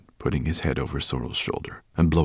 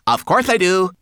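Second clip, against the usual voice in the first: high, loud indignant retort; snapping back; 13 semitones higher, 9 dB louder than usual. A narrator's reading. Homunculus answers the brownie's accusation, snapping. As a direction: snap back as a tiny offended creature. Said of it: "Twigleg snapped back at her".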